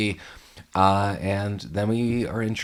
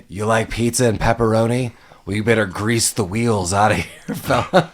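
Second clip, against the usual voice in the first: TV voice; 4 dB louder than usual. Retold or imitated. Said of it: "led by a voice through a T V".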